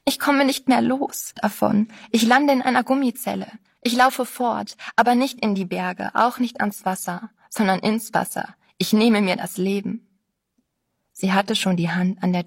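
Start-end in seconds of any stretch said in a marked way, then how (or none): 0.0-10.1 higher, tearful despair, lightly acted; a mild hint of sobbing panic; crying out. Girl breaks down before the narrator, mildly tearful. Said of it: "weinte sie auf".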